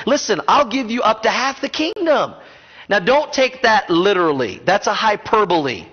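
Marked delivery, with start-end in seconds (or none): 0.1-2.3 higher, coaxing king's offer; a lightly voiced generous king; encouraging king. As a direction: coax her to speak up. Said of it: "notice the king trying to encourage her".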